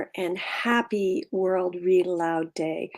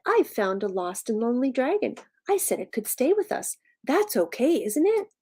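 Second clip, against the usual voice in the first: put-on higher boy voice, climbing to a questioning end; hopeful Timothy; 5 semitones higher than usual. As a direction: plead your case like a hopeful child. Timothy explains to his father.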